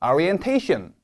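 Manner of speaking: Orientation with its ta syllable stressed. Shown as a demonstration. Teacher models the word for students to repeat. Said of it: "제가 읽으면 따라해 보실게요".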